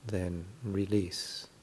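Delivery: calm, unhurried meditation guidance with long pauses; guided meditation. Real, not acted. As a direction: gently guide listeners through settling the body.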